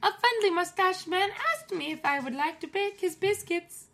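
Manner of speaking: high, put-on accent that drifts Scottish; hammed-up German accent sliding toward Scottish; mock German accent. Retelling the mustache man story in a mock German accent. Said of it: "nope, that's not German at all".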